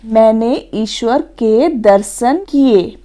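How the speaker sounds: slow, measured model sentence; example sentence. Shown as a demonstration. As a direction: read it out slowly as a correct example. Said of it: "देख लेते हैं इसके उदाहरण". (उदाहरण वाक्य धीरे-धीरे पढ़ते हुए)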